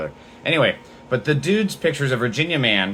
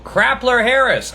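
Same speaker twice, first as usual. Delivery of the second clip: high, loud, drawn-out mocking squeal; high mocking yelp of the nickname; 12 semitones higher, 4 dB louder, slower than usual. Real, not acted.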